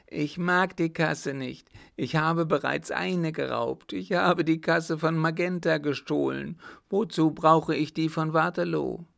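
high, agitated outpouring; raving madman. Acted. Mad son confessing the stolen war chest, raving.

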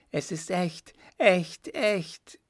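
high, rising triumphant exclamation; triumphant cry. A narrator's reading. Baron gloats over the genuine document, triumphant. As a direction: crow the word echt in triumph. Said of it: "rief er triumphierend".

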